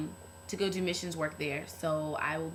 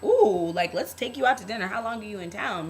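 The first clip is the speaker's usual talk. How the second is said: flirty men; 4 semitones higher, 8 dB louder than usual. Retold or imitated. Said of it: "the men were totally like".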